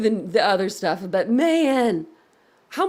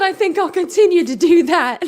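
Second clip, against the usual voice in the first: imitating him; 7 semitones higher, 9 dB louder than usual. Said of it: "he said, he said".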